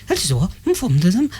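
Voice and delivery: mumbled mock Quebec French; imitating a Quebec French answering message; fake Quebec French. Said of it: "that was my impression of French".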